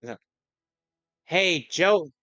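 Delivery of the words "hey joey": higher, slow cartoon character voice; mock cartoon line delivered carefully and slowly; correct quote. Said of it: "you got it wrong".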